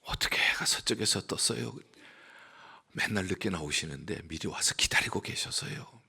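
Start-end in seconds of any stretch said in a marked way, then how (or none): 0.0-1.7 놀란 속삭임. Retold or imitated. Pastor answers in surprise.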